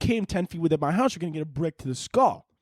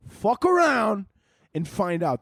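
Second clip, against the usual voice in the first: punched threat; 5 semitones higher, slower than usual. Acted. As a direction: bark the threat like a fight name.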